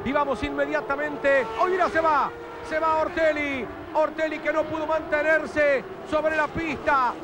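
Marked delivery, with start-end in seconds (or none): 1.6-7.1 surprised. Real, not acted. Car spins off, sudden exclaim.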